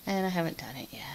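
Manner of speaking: sheepish whisper, almost to herself; whispered confession. Real, not acted. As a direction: admit it in a guilty whisper. Confessing she hasn't culled them.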